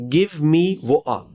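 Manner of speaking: very slow Scottish Give me वो आ; drawn out in a Scottish accent, t swallowed; slow Scottish accent demo. Shown as a demonstration. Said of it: "Scottish accent".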